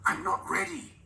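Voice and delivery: high, loud, wild cry; a panicked grandmother shouting she is not ready; wild refusal. A narrator's reading. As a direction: lash out in terror. Grandmother in rage.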